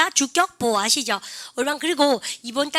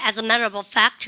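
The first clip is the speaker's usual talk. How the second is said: American accent; much slower than usual. Shown as a demonstration. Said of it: "미국에는".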